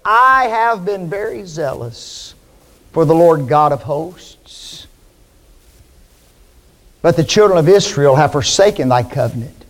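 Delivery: a touch of Elijah moaning; self-pitying lament. Acted. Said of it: "And he says this".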